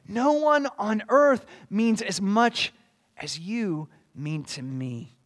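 mock-quotation of fervent worship; passionate devotion. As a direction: declare it slowly, with feeling. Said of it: "You can hear the passion there".

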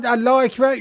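mock shout. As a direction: yell it out like a startled man. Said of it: "یکی داد زد". (فریاد الله اکبر)

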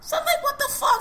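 cracking up at the absurdity; high incredulous laugh-yell; laughing disbelief. Real, not acted. Reacting to package in Bronx.

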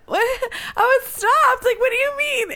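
high, baffled mock protest. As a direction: sound stunned and confused. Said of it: "and I was like".

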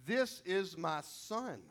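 slow, simple and tender, no flourish; a father's plain declaration of his son; simply stated. Pretend. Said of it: "he just simply says".

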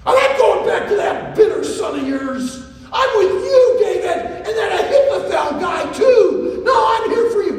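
high, loud, excited calls; eager shouting Hushai. Acted. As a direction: bound in like an overeager dog, shouting. Hushai loudly insisting.

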